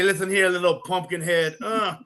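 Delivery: a promo-style Dusty Rhodes voice; Dusty Rhodes impression. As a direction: ham up Dusty's boastful promo. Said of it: "he would tell me".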